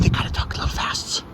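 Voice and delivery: quick, whispered demo of someone lowering their voice. Shown as a demonstration. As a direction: drop to a fast whisper. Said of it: "purposely lowering their volume".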